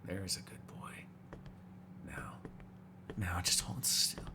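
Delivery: low, very soft murmur to prey; barely-voiced predatory coaxing; hushed coaxing. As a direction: lull them softly, intimate and in control. Coaxing prey before a bite.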